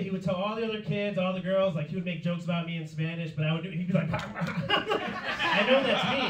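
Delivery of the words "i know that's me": slow, drawn-out suspicious line. Retold or imitated. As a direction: drag it out, wary and hurt. Kid suspecting jokes.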